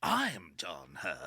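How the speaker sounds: slow, very low impersonation; low, drawn-out impersonated voice; John Hurt impression. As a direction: sink the voice and stretch each word. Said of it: "supposed to be doing the two John Hurts".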